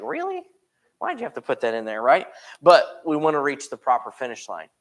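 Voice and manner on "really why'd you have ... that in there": playfully outraged at the verse; mock disbelief. Preacher mocking his own shock at reading the verse. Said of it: "I was like".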